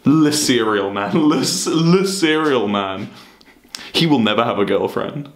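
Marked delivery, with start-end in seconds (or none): 0.0-3.1 drawn out slowly, mocking; sneering at the old meme. Mocking the old meme to chat, drawn out slowly.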